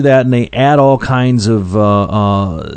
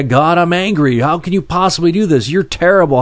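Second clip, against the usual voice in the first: mildly angry complaint, pitched higher; retold anger; 5 semitones higher than usual. Preacher retelling how he used to yell at God, mildly angry. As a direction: replay an angry protest without raising the volume. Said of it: "I was angry".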